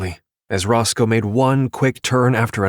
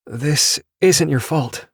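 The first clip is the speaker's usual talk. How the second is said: slow, firm protest, a little higher; 6 semitones higher, slower than usual. A narrator's reading. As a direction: insist it isn't his fault, slowly. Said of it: "she protested".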